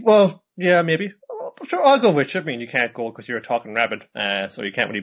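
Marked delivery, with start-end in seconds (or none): 0.0-2.4 high cartoon voices. Voicing Rabin and Nodoka.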